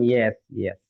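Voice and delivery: a lightly voiced customer nodding along; eager yes. Customer answers the pharmacist, lightly voiced low yes. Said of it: "এখন কিন্তু আপনি বলবেন".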